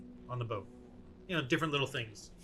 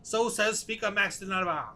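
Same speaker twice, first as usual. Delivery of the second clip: high, loud protest in character; indignant prisoner; 7 semitones higher, 6 dB louder than usual. Acted. Prisoner telling captors they are unlawful, high-pitched indignation. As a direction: protest like an official wronged by ruffians.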